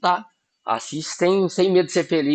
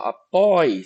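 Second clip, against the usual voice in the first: "apoio" with a long, held "oi"; slow "apoio", leaning on the strong middle syllable; stressed syllable drawn out; 3 dB louder than usual. Shown as a demonstration. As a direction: stretch the "oi" in "apoio". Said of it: "Você percebe que você fala oi".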